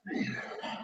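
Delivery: a heavy breathy huff in the face; creature huff. Acted. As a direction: huff out like a beast sizing you up. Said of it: "he looks to you and goes".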